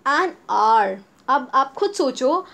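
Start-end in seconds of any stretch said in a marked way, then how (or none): 0.1-1.0 an hour said with silent h, louder; model pronunciation. Shown as a demonstration. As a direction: say an hour as an our, no h. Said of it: "teacher modelling examples".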